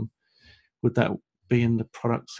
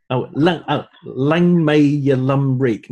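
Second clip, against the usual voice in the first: put-on Scottish accent; 5 dB louder, slower than usual. Host reading a viewer's Scottish greeting in a Scottish accent. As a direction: try the phrase the Scottish way, drawn out. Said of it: "If I put that in a Scottish accent".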